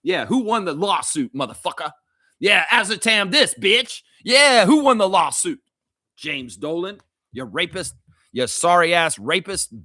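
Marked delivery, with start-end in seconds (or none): 0.0-5.6 rising shouted taunts; mock trash talk. Fan taunting the Knicks owner, building to a yell. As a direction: taunt him louder and louder.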